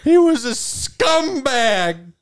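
high, jittery waiter voice; nervous waiter. Acted. Waiter answering the party's call, high and jumpy. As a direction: squeak it out like a nervous little waiter.

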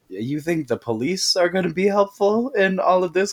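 a skeptical parent scoffing at the plan; sassy scoff. Retold or imitated. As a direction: scoff at the idea, sassy and high. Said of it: "either Linda or Howard are like".

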